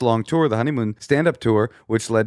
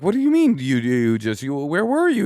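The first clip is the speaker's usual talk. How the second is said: exasperated demand; 3 semitones higher than usual. Retold or imitated. Retold confronting of the brother.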